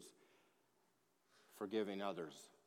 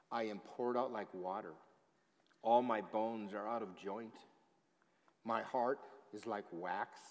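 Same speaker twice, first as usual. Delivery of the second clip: solemn, measured reading of a psalm, swelling on the pleas; scripture reading; 4 dB louder than usual. Acted. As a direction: read the psalm as a lament from the pulpit. Pastor reads Psalm aloud.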